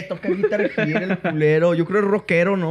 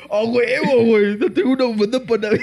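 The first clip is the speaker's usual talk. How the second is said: higher, fast mock imitation; mocking friend; 3 semitones higher, 4 dB louder than usual. Mocking buddy's scarf excitement, fast mock voice. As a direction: ham up his buddy's excitement.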